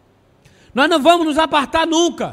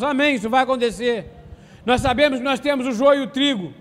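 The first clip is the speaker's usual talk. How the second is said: preaching through hiccups; talking with hiccups; 2 semitones lower than usual. Real, not acted. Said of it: "Tô com soluço".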